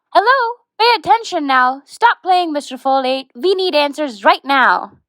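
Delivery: high-pitched, mildly exasperated demand; impatient chiding. Acted. Host tells Mister Folate to stop playing, impatient. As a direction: demand attention from someone not listening.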